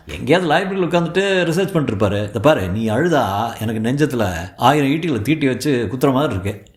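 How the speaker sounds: a touch of lovelorn coaxing; consoling suitor. Acted. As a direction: reassure her with a little melodrama. Suitor consoles crying girl.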